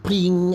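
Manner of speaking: high, ringing "ping"; imitated sword clang. Gamer showing his sword bouncing off rock, imitated clang. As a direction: mimic a blade bouncing off stone. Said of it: "My sword, like".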